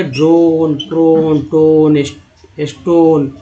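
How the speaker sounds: "ड्रोन, ट्रोन, टोन, स्टोन" with a long O before N; each of "ड्रोन, ट्रोन, टोन, स्टोन" ending in a long "own"; ONE read as "own". Shown as a demonstration. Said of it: "अब इसको ओन पढ़ें".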